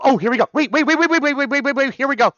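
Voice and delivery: high, loud rapid wait; can't contain it; excited wait. Real, not acted. Streamer as the album starts, high excited repeats.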